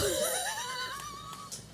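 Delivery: a long, very high giggle; high squealing laugh. Real, not acted. Laughing at the cat.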